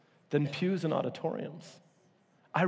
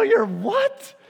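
much higher, loud disbelieving yell; incredulous shout; 8 dB louder than usual. Retold or imitated. Reacting to a friend's nerdy answer, high loud shout.

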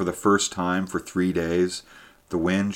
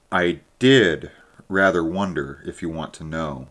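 said slowly. Acted. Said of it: "he said slowly".

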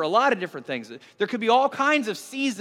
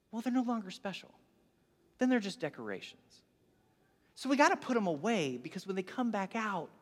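softer, soothing explanation; gentle reasoning; 9 dB quieter than usual. Retold or imitated. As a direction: reason softly with an upset spouse. Husband consoles his upset wife.

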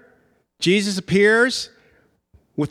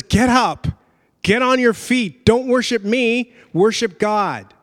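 raised, louder acted rebuke; imitating an angel's firm correction; urgent command; 4 semitones higher, 4 dB louder than usual. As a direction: order him up, high and forceful. Angel rebukes kneeling John, acted.

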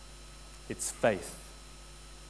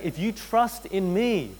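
reassuring Jesus; 5 semitones higher, slower than usual. Acted. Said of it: "He's saying".

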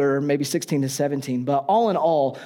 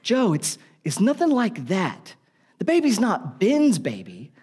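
hurried denial; 6 semitones higher than usual. Retold or imitated. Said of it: "Mary has to step in".

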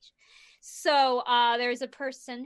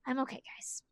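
softly, worn out and quiet; tired; 11 dB quieter, faster than usual. Real, not acted. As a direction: let the voice sag, real fatigue. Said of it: "just a little tired".

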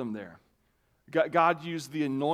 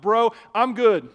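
retold refusal; 7 semitones higher, 9 dB louder than usual. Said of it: "I'm like".

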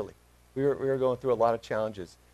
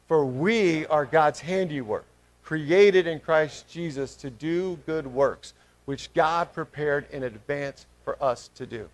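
slow, measured verse reading; reading aloud together; 4 dB louder, slower than usual. Real, not acted. Leading the congregation through a verse, slow unison reading. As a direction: read slowly for a group to follow. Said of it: "read this verse out loud together".

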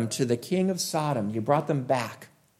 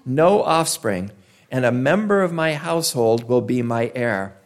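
a touch of accusation, jabbing each "you"; blaming. Retold or imitated. Abram accusing God of leaving him childless, mild blame. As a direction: poke at God with mild reproach. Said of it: "do you hear a little bit of blame in that".

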